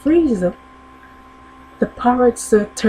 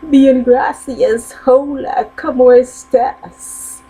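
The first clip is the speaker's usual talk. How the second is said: parrot voice; 4 semitones higher, 4 dB louder than usual. Acted. Parrot repeats its Spanish.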